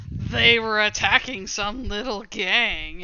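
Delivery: slow, emphatic, teeth slightly gritted; through gritted teeth. Acted. Gang member explaining who was attacked, through gritted teeth. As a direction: spell it out with restrained resentment. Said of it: "gritting his teeth a bit".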